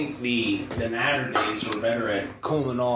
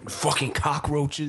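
slow, weak impression of a movie gangster; lightly accented crime boss; Scarface; slower than usual. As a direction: try a half-hearted gangster voice. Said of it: "do an impression of Scarface".

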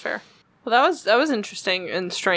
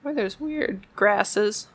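voice cracking; 4 semitones higher than usual. Real, not acted. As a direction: voice cracks mid-line. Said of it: "Your voice just cracked".

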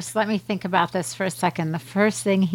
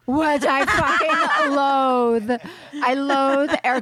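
laughing; 6 semitones higher, much slower than usual. Real, not acted. Laughing rant about air conditioning.

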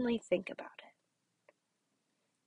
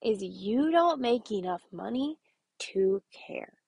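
slow hushed catchphrase; slower than usual. Shown as a demonstration. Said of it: "My response to that".

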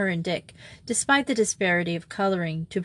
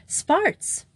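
helpfully supplied; 10 semitones higher than usual. A narrator's reading. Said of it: "supplied his sister".

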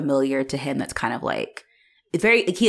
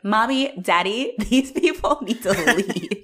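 mock pleading pet voice, higher; talking dog; 5 semitones higher than usual. Dog warning its owners about the visitors, comic pet voice. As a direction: voice the dog as a little child calling its parents. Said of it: "In that voice, too".

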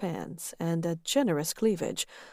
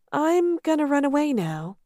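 higher embarrassed squeak; Dana, mortified; 8 semitones higher than usual. Acted. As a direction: blurt it in panic.

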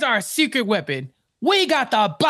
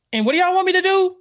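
mock exasperated judge; 9 semitones higher, 4 dB louder, faster than usual. Pretend judge asks, exasperated.

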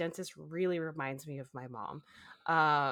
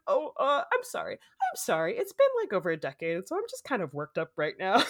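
tearful apology; 2 semitones higher, 5 dB louder than usual. Retold or imitated. Apologizing to the kind receptionist, tearful. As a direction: apologize while still crying. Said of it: "apologizing for having this huge emotional reaction".

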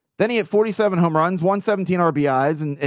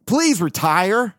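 slow plea; 2 semitones higher, slower than usual. Retold or imitated. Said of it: "probably said".

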